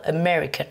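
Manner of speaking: American with ME emphasised; stress on second syllable. Shown as a demonstration. Teacher modelling the nationality, stress on ME in American. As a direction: hit the ME in American. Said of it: "On insiste sur la deuxième".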